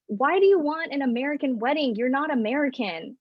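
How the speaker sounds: lightly voiced mother scolding; mom's blunt retort. Mom telling her daughter she isn't American, lightly imitated. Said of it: "And she said out loud".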